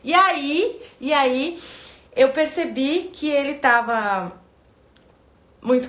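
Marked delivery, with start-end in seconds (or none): none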